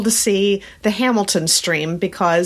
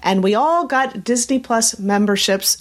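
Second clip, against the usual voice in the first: slower, careful retake; practicing a speech. Shown as a demonstration. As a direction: reread it slowly and carefully. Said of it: "let me try that again".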